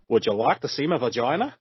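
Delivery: put-on Australian accent, rising into the question. Performer showing off a favorite phrase in an Australian accent. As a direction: ask it in broad Australian. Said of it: "in my best Australian accent".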